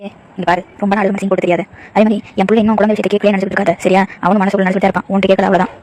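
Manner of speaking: a lightly voiced mother-in-law scolding; mild cold blame, half-hearted taunt. Mother-in-law blaming daughter-in-law for no child, lightly voiced.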